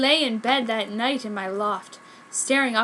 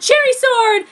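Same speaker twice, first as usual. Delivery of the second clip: high, loud summoning shout; battle cry; 11 semitones higher, 8 dB louder than usual. A narrator's reading. Heroine summons a sword mid-fight, shouting. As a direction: call the sword out hard.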